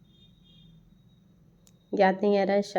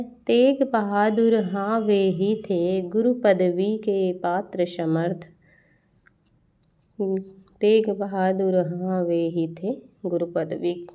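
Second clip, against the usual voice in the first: slow, measured reading of verse; verse recitation. Acted. Teacher reciting an example line to students, measured verse recitation. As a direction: recite with drawn-out syllables.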